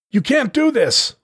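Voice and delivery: very high, drawn-out cry; yell of protest. A narrator's reading. Youngster protests to the armed leader, high stretched yell. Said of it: "I yelled in protest".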